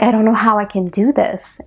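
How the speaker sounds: whispered through held-back tears; tearful whisper. Retold or imitated. Retelling her breakdown on the kitchen floor, whispered and tearful. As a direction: breathe it out, close to crying. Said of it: "I'm trying not to cry right now".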